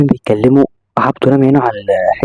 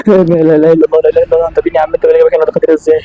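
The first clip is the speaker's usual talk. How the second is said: nervous fright; 3 semitones higher, faster than usual. Acted. Seeing creepy child.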